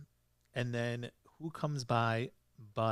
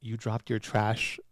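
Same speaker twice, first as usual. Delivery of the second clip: angry retold order; 6 dB louder than usual. Angry detective orders the husband to clean up, mock-stern and building. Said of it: "he looks very angry".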